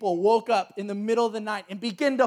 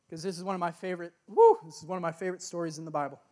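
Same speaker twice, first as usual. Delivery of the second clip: fast, eager restart with a woo; excited rush; 4 semitones lower, 3 dB quieter, much faster than usual. Real, not acted. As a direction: rush it out, delighted. Excited restart about favorite story.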